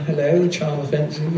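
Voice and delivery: posh English hello, kept up; up-pitched posh voice. Shown as a demonstration. Showing the character's upper register, posh charm. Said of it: "sometimes you'd be up".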